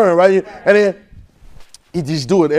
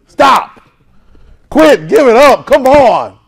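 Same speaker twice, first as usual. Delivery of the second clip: sharp commands; 5 semitones higher, 5 dB louder, much slower than usual. Real, not acted. Preacher commanding listeners to quit doubting.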